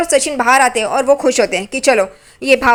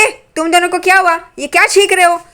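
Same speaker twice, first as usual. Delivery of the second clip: high, quick startled asking; startled question; 6 semitones higher than usual. Retold or imitated. Aunt confronts sneezing couple, startled and quick. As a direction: Renuka jumps in, startled, high and fast.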